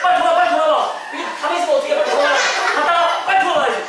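high, hurried game instructions; urgent playful urging. Pretend. Teacher hurrying children back in the motorbike game, urgent call. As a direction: hurry the riders back, pitch up.

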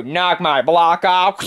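slow sarcastic dare; mocking taunt. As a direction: draw it out low and dismissive. Taunts the one threatening him.

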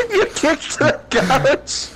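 slow laughing question; laughing disbelief. Real, not acted. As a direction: laugh through it, slowly.

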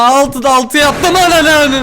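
loud, slow victory yell; loud triumphant cry; triumphant shout. Real, not acted. Perfect score, shouting.

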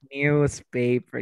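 slow "Newspaper" as "nyoozpaper"; British pronunciation. Shown as a demonstration. Teacher confirms student's British answer, slow "Newspaper" as "nyoozpaper". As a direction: stretch "Newspaper" with a y-glide after n. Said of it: "¿Y en británico".

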